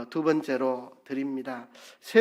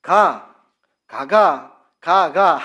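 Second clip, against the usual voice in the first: louder Gyeongsang intonation "가가, 가가"; 3 semitones higher, 10 dB louder, much slower than usual. Shown as a demonstration. Preacher demonstrating dialect, a loud Gyeongsang "가가". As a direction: sing the "가가" tones the Gyeongsang way. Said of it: "제가 해볼게요".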